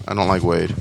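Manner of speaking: a hint of cheesy action villain, low; bad eighties villain. Voice actor reading a line, lightly villainous. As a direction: growl it like a B-movie bad guy. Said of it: "sounds like the villain in, like, a bad eighties action movie".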